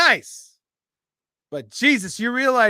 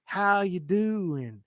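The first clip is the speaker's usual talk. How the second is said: very slow, soft Arkansas "How you doing?"; Southern accent; 5 dB quieter, much slower than usual. Retold or imitated. Imitating a girl from Arkansas on the phone, a slow Southern accent. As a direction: stretch it out in a soft Southern drawl. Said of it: "Very Southern accent".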